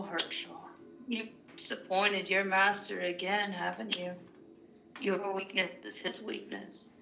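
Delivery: sarcastic Cossidon taunt. Acted. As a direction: taunt him with drawn-out mock sympathy. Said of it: "sarcastic voice that Sybil can".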